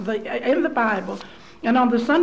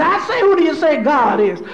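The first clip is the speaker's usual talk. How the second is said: preacher's call; 3 semitones higher, 5 dB louder than usual. Retold or imitated. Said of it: "He said".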